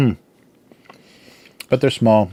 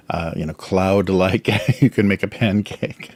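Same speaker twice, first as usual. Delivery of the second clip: laughing. Real, not acted. Laughing at her own description.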